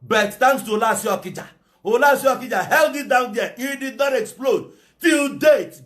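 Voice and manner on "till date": higher, louder shout; defiant shout in an angry rant. Real, not acted. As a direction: fling it out at the doubters. Angry rant, challenging listeners.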